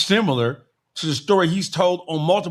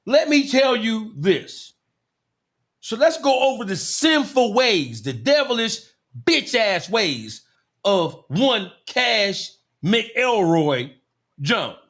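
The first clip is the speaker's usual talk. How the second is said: mock preacher; slower than usual. Sermon on his sins.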